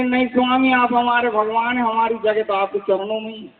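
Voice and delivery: lightly voiced meek wife, reverent; a hint of a humble devoted wife.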